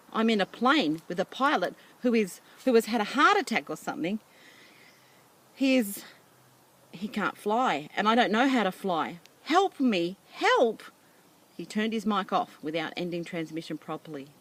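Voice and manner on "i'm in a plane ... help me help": higher, louder, hurried pleading; building to a frantic cry for help; boy begging the radio for help; rising panic. Acted. Boy explains emergency.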